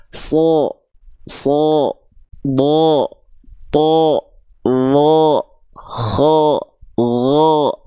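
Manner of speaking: each syllable from "So" to "Kho" held long on a thick O; heavy O-coloured syllables "So, Bo, To, Lo, Kho", one by one; huruf tebal. Shown as a demonstration. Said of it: "kita lafalkan seperti vokal O". ("So, Bo, To, Kho" tebal seperti vokal O)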